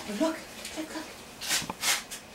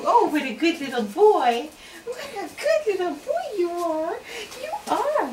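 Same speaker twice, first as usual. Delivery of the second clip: doggy praise; 2 semitones higher than usual. Real, not acted. Praising the puppy.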